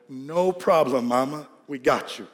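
low, easy promise to mama; mock-innocent reassurance. Boys promising mom they won't slide, mock-innocent reassurance. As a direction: reassure her smoothly, voice dropping.

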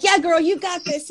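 high, bright cheerleader hype; hyping herself up in a high cheerleader voice; pep-talk voice. Retold or imitated. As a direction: pump yourself up like a cheerleader. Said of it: "And I'm like".

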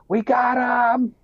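high, slow shout of we got 'em; triumphant call. Retold or imitated. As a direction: call it out to the whole team. Medic calling out on finding him.

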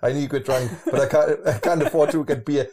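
loud, laughing mock lament; teasing imagined complaint. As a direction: act out a friend's woes, laughing through it. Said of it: "and you're like".

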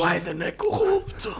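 squeaky high mock Trump; Trump impression. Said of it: "Adorei a tua imitação do Trump".

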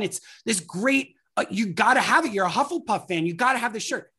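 an overeager vendor pouncing on a fan; over-the-top excited merch pitch; pushy gushing salesperson. Retold or imitated. Stranger accosts you selling merch.

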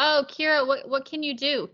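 self-mocking. Mocks herself in acted quote.

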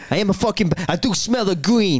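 high, put-on daft voice; comic high-pitched boasting; mock bam. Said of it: "Imagine you walking about Carlisle".

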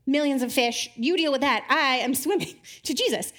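lifted, dismissive rush to Jesus; eager Peter. Retold or imitated. Peter leaving the disciples with their fish, eager and dismissive. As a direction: brush off the others and go. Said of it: "he's like".

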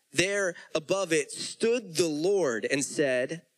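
measured, deliberate Bible reading; preacher reading Genesis to the congregation; scripture reading. Acted. Reads Genesis passage aloud.

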